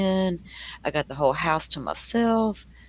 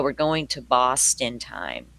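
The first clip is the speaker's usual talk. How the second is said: put-on slow, drawn-out try at a Boston accent; attempted Boston accent; slower than usual. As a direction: have an unsure go at Boston speech in a Southern voice. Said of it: "I don't know if I can do that accent".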